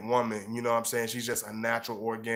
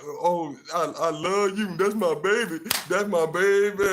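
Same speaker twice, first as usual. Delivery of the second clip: higher and louder, put-on doting voice; mock gushing boyfriend; 7 semitones higher, 6 dB louder than usual. Mocking showy boyfriends who gush over their girl, hammed-up doting. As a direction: ham up a sappy lover. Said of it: "they be like".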